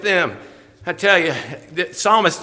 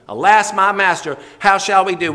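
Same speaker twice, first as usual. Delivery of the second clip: panicked cry; 7 dB louder than usual. Retold or imitated. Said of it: "deer in headlights moment".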